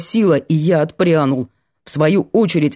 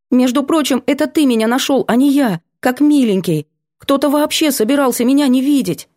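put-on higher, indignant girl's retort; 8 semitones higher than usual. Girl snapping back at Vanya, indignant. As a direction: fire back, offended.

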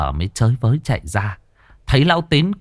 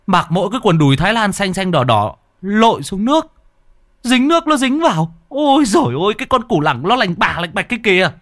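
high mocking exclaim; 8 semitones higher than usual. Mocking uncle's exposed crotch.

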